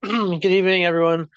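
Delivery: stuffy, blocked nose; congested. Real, not acted. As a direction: speak through a head cold. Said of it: "Sorry if I sound like I'm congested".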